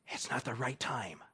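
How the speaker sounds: a very soft, grave point; hushed. Real, not acted. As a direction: drop almost to a murmur. Quiet emphatic point.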